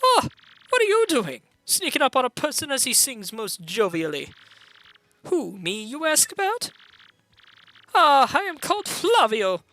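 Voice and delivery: put-on high, theatrical French-accented captain. Captain interrupted while singing, grand French accent. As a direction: play an affronted singer with a put-on French accent. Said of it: "supposed to have a French accent".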